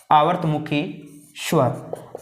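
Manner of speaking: आवर्तमुखी spoken word by word with a pause, स्वर trailing off to a breath; slow dictation. Shown as a demonstration. Teacher dictates a term for students to write down slowly. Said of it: "इसको दो भागों में आप लिख सकते हैं".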